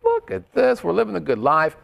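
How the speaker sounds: bright, lifted voice, lightly mock-grand; delighted. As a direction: show off the view like a big shot. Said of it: "This is like".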